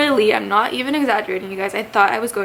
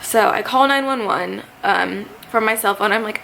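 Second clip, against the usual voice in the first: normal talking voice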